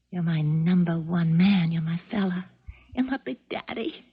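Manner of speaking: put-on baby doll voice. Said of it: "tinkly, phony, jangling, baby doll voice".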